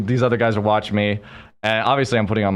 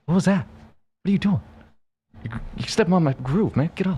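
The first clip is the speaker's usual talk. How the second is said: high-pitched imitation of an annoyed pal; mock indignant; 11 semitones higher than usual. Friend complaining about a stepped-on groove, mock indignant. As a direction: protest in put-on disbelief.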